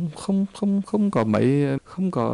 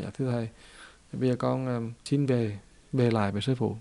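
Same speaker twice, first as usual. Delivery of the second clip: humble soft request; 2 semitones lower, 6 dB quieter than usual. Acted. Humbled disciple asks to return.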